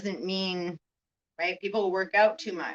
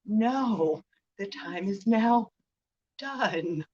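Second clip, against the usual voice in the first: firm quiet no; 5 dB quieter, much slower than usual. Retold or imitated. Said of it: "when someone says".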